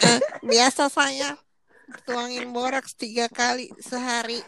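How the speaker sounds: slow disguised informant voice. Pretend. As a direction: play the hidden-identity source on TV. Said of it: "Itu suara siapa".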